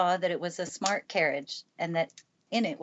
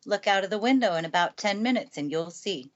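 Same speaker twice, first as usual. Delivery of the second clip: lightly voiced brisk housekeeper, a bit louder; a hint of a brisk housekeeper; Mrs. Medlock; 3 semitones higher, 5 dB louder than usual. Housekeeper telling the girl to wait and watch, lightly brisk.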